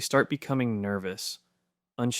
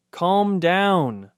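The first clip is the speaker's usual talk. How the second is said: high and loud, yelled at the dog; loud calm down; 8 semitones higher, 7 dB louder than usual. Retold or imitated. Owner yelling at an excited dog, loud and high. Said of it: "said loudly".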